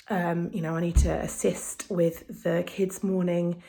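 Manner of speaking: slow, breathless and wheezy; out of breath. Real, not acted. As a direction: speak while short of breath. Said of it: "I'm really out of breath".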